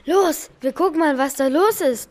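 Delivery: bold suggestion. Acted. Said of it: "meinte Papsi mutig".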